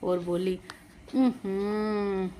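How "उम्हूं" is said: annoyed hum. A narrator's reading. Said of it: "वो चिढ़ सी भी गई".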